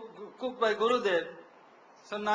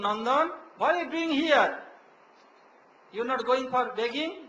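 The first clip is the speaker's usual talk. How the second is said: retold reproachful questioning; 3 semitones higher, 4 dB louder than usual. Gurudev questions disciple who stayed behind.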